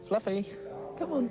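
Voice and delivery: calling out. Real, not acted. Calling the lamb.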